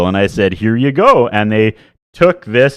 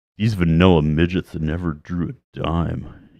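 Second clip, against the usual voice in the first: deep, low, slow unhurried delivery; 5 semitones lower, 7 dB quieter than usual. Quoting Kevin Nash in his voice: Kevin Nash impression. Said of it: "That's a quote".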